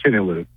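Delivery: "Chenyelu" run together as CHIN-ee-loo; network's pronunciation. Shown as a demonstration. Reporter passes on how coach said the surname, "Chenyelu" as CHIN-ee-loo. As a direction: say "Chenyelu" quickly, stress up front. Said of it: "the guys on the S E C network were saying it".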